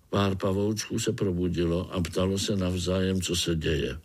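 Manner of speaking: ordinary delivery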